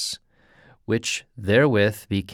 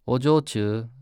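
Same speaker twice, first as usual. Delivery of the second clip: gentle. Acted. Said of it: "as gently as he could".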